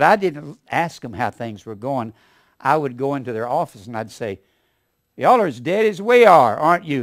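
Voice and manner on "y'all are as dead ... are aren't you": teasing blunt question. Retold or imitated. Teasing rival agents, loud opener.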